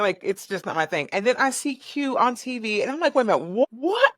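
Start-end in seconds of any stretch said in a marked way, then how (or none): 3.1-4.1 retold double take, rising to a much higher what; catching a friend on TV, disbelieving; stunned disbelief. Seeing Q on Good Morning America, stunned double take. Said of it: "going through it".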